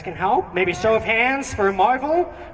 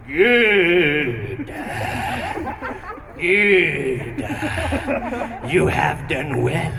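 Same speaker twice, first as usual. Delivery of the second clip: Palpatine impression; much slower than usual. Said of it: "Palpatine goes".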